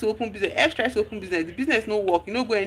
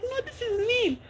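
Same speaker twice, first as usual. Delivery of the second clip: high outraged questions, voice pushed up; angry; 4 dB quieter than usual. Retold or imitated. K confronting her friend over the hidden price, high outrage. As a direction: demand answers, shocked and furious. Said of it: "K was so angry".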